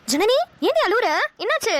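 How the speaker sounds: startled, sharply rising questions; alarmed mother. Acted. Mother catching her daughter crying, alarmed. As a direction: demand to know what's wrong.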